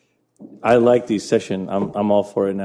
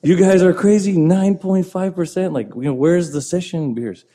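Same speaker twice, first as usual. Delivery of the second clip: mock British exclaim; 9 semitones higher, 4 dB louder than usual. Retelling British guys' outburst.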